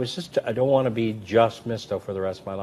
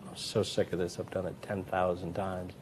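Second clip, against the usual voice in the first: softer, weary grumble offstage; tired mutter; 7 dB quieter than usual. Retold or imitated. Performer backstage to himself, a soft weary grumble. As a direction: drop the act and mutter it. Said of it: "dropped the act".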